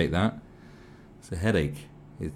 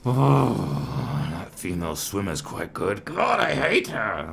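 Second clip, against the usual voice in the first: a lightly voiced resentful bloke, slowing on the last bit; mock jealous swimmer; 5 dB louder, slower than usual. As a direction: sneer it like a sore loser. Mocks jealous male swimmer thinking.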